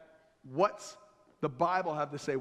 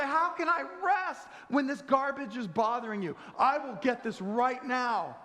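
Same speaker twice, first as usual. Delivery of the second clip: heroic husband; 6 semitones higher than usual. Acted. Husband heroically insists on garbage.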